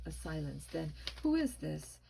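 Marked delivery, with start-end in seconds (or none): 1.2-2.0 higher, puzzled question; confused. A narrator's reading. Father hears a strange caller, confused. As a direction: ask as if baffled by the voice. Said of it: "Mister Caldwell sounded confused".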